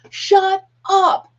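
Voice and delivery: high, loud incredulous squeal; shocked shut up. Retold or imitated. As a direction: squeal it in disbelief. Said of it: "She looks at me and goes".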